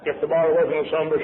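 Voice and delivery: loud, strangled outburst; hammed-up gagging on liquor; acted choking on whiskey. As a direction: choke it out as if the drink burns. Acting out whiskey burn and vomiting.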